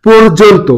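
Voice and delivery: পর্যন্ত said as porjonto with o; teacher models পর্যন্ত as porjonto; correct pronunciation. Shown as a demonstration. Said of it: "সঠিক উচ্চারণ হচ্ছে কি হবে".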